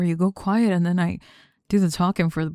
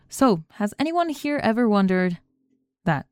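lightly higher, imitating a timid presenter; mocking his voice; 4 semitones higher than usual. To her project partner, mimicking his opening line: light mock imitation. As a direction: parrot his opening back at him, a touch mocking. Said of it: "I said it in your voice".

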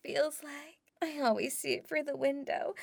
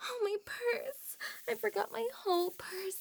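high, startled gasp of remembering; sudden realization; 5 semitones higher than usual. Acted. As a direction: catch yourself, suddenly remembering. Suddenly remembers her purse.

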